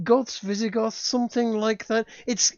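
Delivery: ordinary talk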